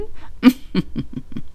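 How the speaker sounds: soft discreet cough; polite little cough. Acted. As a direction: clear the throat politely. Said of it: "höfliches kleines Kellnerhüsteln".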